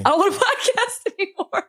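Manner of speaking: high, tearful laughing whine; upset, giving up. Real, not acted. Podcaster is done podcasting, upset. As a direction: wail it half laughing. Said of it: "I'm so upset".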